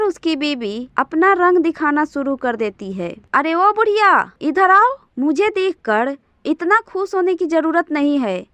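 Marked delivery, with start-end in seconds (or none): 3.3-8.5 rude scolding. Acted. Bahu yelling at her mother-in-law, rude and bossy. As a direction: scold the old woman with contempt. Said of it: "ऐसे क्यों चिल्ला रही हो?".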